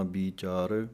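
careful v in ਵਿਚਾਰ; clear v sound. Shown as a demonstration. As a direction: say ਵਿਚਾਰ starting on v, never b. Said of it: "ਵਾਵੇ ਦੀ ਆਵਾਜ਼ ਆਉਣੀ ਚਾਹੀਦੀ ਹੈ".

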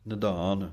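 ਨਿਧਾਨ with a heavy, aspirated ਧ; weight the ਧ in ਨਿਧਾਨ. Shown as a demonstration. Teacher shows students the heavy ਧ in ਨਿਧਾਨ. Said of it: "ਭਾਰਾ ਜਿਹਾ ਕਰਕੇ ਬੋਲਣਾ ਹੈ".

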